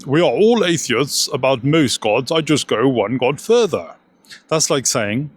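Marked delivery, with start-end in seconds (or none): 0.0-3.9 lightly put-on English academic voice; a hint of a professorial impression; Richard Dawkins impression. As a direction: quote it as a mock intellectual. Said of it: "Dawkins once said".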